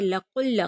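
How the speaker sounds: लकुल्ल with short कु and firm doubled ल; short qu joined to lam. Shown as a demonstration. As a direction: snap कु shut onto the ल in लकुल्ल. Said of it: "क़ाफ़ को लाम के साथ मिलाएंगे". (लकुल्ल, क़ाफ़ लाम से मिला कर)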